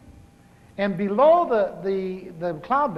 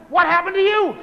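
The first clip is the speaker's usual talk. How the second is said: surprised; 8 semitones higher, 8 dB louder than usual. Retold or imitated. Surprised to see her up.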